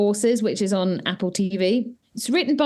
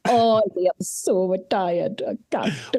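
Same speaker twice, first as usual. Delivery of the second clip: teasing partner for complaining about marathon training, mock whiny whisper; mock tired whine; 2 semitones lower than usual. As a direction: mimic a worn-out partner moaning. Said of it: "you just were whining".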